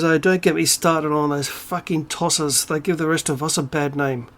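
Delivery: imitating an East London friend; mild East London accent, fed-up quote. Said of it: "he said in his East London accent".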